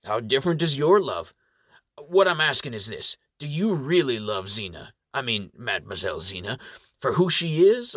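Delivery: gentle probing elder voice; kindly old reverend. Acted. Appleseed questions Lynx.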